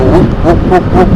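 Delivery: imitated wind gusts. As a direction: mimic the wind buffeting the helmet. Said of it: "masuk anginnya tuh".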